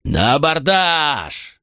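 high, slow roared battle cry; roaring. Acted. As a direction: roar the boarding order. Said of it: "взревел". (громкий рёв)

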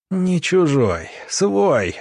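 high, slow mock growl. A narrator's reading. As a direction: spit it out with sudden anger. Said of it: "внезапно прорычал Завьялов".

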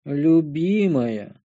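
Любимая drawn out very slowly in a fake tearful wail; fake crying. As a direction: stretch Любимая into a hammed-up sob. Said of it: "пустил я фальшивую слезу".

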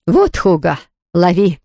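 quick, understated call; mild calling out. A narrator's reading. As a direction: toss the words to a helper. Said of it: "крикнула госпожа Кюмельзавт". (короткий оклик)

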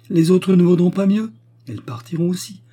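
high, distressed protest; agitated complaint. A narrator's reading. Widow dismissing her hostess's remedy, agitated. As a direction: refuse all consolation, pitched high. Widow's tearful tirade about the servants.

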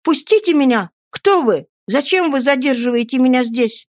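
put-on high, alarmed boy pleading to be let go; a scared boy begging a stranger; frightened plea. Seized boy begs stranger to let him go, frightened.

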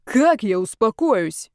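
drawn-out wail of exasperation; anguished howl. A narrator's reading. Zaretsky refusing his friends' calming, howled. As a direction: howl it, stretching the words. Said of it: "взвыл Зарецкий".

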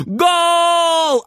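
high, loud shout of goal; triumphant yell. Acted. Frieder celebrating his goal, a loud high shout. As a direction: scream it like you scored in a final. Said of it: "орёт Фридер".

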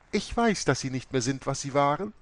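loud, high, scolding nun; stern abbess. A narrator's reading. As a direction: declare war on heresy, high and loud. Abbess rebukes the ex-priest.

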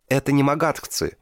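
frightened soldier gasps out the correction; panting alarm; breathless stammer. A narrator's reading. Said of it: "заикаясь и тяжело дыша".

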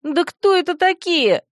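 high sharp bark; barking shout. A narrator's reading. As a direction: bark it out impatiently. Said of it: "рявкнула я".

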